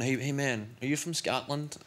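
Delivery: lightly imitated American accent; a hint of an American dude; American guy. American stranger asks about his accent, imitated American accent. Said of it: "an American guy".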